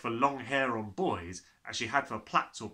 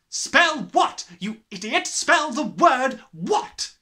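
loud, higher tirade; furious headmistress; 12 semitones higher, 12 dB louder, slower than usual. Acted. Headmistress raging at the cheeky boy. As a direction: roar the insults.

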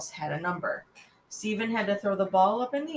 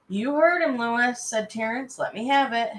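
eager demand; 5 semitones higher, 5 dB louder than usual. Acted.

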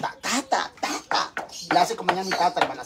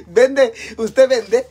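indignant shout; 5 semitones higher, 9 dB louder, much slower than usual. Acted. Mock indignant exchange.

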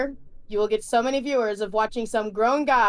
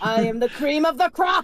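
louder, gravel-free wrestling promo; Macho Man impression; 4 dB louder than usual. Doing a Macho Man promo, lightly voiced wrestler. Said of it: "Macho Man Randy Savage".

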